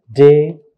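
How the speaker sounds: "delicious" broken into de, li, shus with pauses; syllable by syllable. Shown as a demonstration. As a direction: sound out "delicious" in three separate beats.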